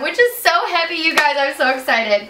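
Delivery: rushed, bubbly burst of excitement; giddy unboxing excitement; excited gush. Real, not acted. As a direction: gush about the heavy box. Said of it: "Can you tell just the immediate change in pace there?".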